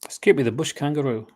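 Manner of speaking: hammed-up mock Australian accent; clumsy attempt at an Australian accent; bad Australian accent. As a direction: put on a terrible Australian accent. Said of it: "That's the worst Australian accent ever".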